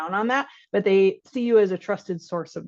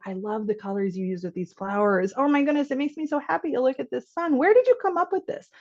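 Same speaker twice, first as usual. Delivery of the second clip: builds from easy to high, delighted; gushing praise; 5 semitones higher than usual. Shown as a demonstration. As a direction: pour on the praise, rising to a thrilled question. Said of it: "so instead, like".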